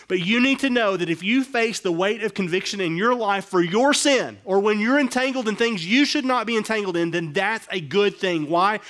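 loud, high preaching build; preaching at full force. Real, not acted. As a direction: drive the point home, rising and loud.

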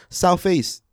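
high-pitched Southeast London hood shout-out; mock London accent. Shown as a demonstration. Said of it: "that's a good little detail".

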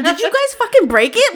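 loud, high, laughing accusation; outraged accusation. Retold or imitated. Accusing the mechanics of breaking the machine, loud laughing outrage. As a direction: fire it at them in disbelief.

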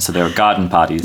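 put-on dropped r's in garden parties, Boston Irish accent. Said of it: "very thick Boston Irish accent".

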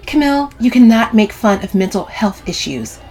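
earnest telling-off; scolding. A narrator's reading. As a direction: reprove a cousin firmly. Sylvie scolds Camille.

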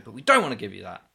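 quick, taunting quiz host snatching the prize away; mock teasing quiz host. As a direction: tease them, rattle it off. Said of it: "he'd snatch it away and say".

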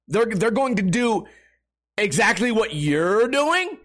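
rising into a mock incredulous shout; sarcastic comeback that builds to a shout; sarcastic retort. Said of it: "I'm like".

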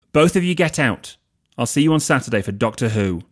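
ordering both of them out, loud and high; Harry ushering the two out, loud and commanding; firm dismissal. Acted.

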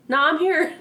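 cheeky ghost answering. Retold or imitated. Voicing the ghost.

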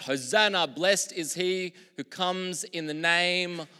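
high, loud crowd cry of hosanna. Retold or imitated. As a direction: call it out like the crowd at the gate. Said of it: "they cried out".

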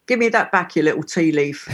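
a light Cockney scold, half laughing; Cockney slang. Shown as a demonstration. Showing Cockney slang, mock scolding a thief. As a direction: playfully tell off a little thief. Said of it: "What else?".

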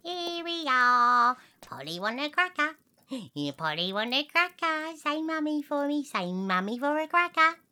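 put-on doting old lady coaxing. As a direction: tempt the parrot with a cracker.

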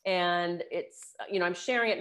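hoarse from a sore throat; gruff voice. Real, not acted. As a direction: talk through a scratchy, gruff throat. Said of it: "I have a little bit of a gruff voice".

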